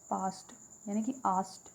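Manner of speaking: "पास्ट" then "आस्ट" with the P dropped; isolated rhyme sound. Shown as a demonstration. Teacher extracts the sound from past, rhyme ending isolated. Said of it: "इसका जो sound निकल रहा है".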